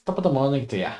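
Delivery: milder Irish accent, closer to own voice; a toned-down Irish lilt, the corrected take. Shown as a demonstration. Streamer correcting his Irish accent attempt. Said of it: "It's not like this".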